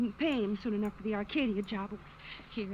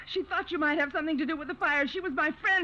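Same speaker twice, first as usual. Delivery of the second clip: crying; 5 semitones higher, 4 dB louder than usual. Acted. Betty confessing, crying.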